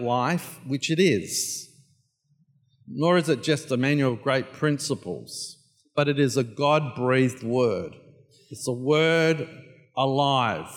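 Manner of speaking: hushed pulpit prayer. Acted. Opening prayer.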